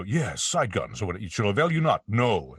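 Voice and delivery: lightly declaimed Shakespearean villain; Megatron. Shown as a demonstration. Actor showing his Megatron ad-lib, Shakespearean grandeur. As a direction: roll it out grandly, swooping on each word. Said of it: "it's like Shakespeare".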